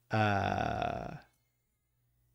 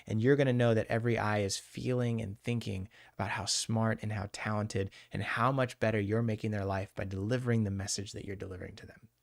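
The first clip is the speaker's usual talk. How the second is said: softer, soothing hypnotherapy delivery; hypnotic voice; 3 dB quieter than usual. Shown as a demonstration. Hypnotherapist giving a nervous presenter a post-hypnotic suggestion, softly. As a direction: ease the confidence suggestion into their mind. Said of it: "a little bit of a hypnotic voice for you right there".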